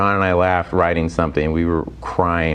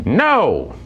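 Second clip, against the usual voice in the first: high, drawn-out mock crowd "no"; resounding rejection; 5 semitones higher than usual. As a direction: swoop down from a high pitch, refusing as one. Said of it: "the audience was just like".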